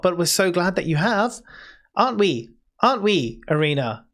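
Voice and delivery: high, soothing nurse voice, pitched well up; a kind healer calming a frightened patient; caring nurse. Acted. Nurse reassuring the patient who just woke, high and soothing. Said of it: "and she says".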